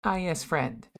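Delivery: put-on light thick Russian accent; a hint of a Russian greeting. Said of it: "in a thick Russian accent".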